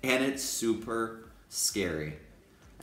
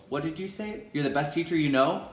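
playful mock mishearing; 5 semitones higher than usual. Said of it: "I just go".

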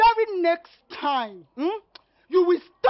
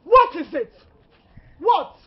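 annoyed snap; 3 semitones higher, 8 dB louder, slower than usual. Acted. Angry sister-in-law confronts him.

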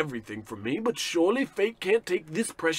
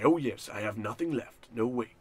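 softer, lower, hammed-up gloom; mock despair; 3 semitones lower, 4 dB quieter than usual. Ruined man brooding to himself, mock despairing. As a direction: wallow in self-pity, slowing at the end.

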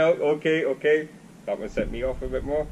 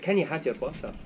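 attempted Glaswegian accent; 3 dB quieter than usual. Shown as a demonstration. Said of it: "try and do that again".

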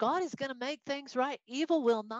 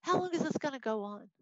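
bothered protest; 3 semitones higher than usual. Acted. Teacher as the prophet asking God about looting, bothered. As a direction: drag out each accusation, as if fed up. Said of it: "Habakkuk is bothered by it".

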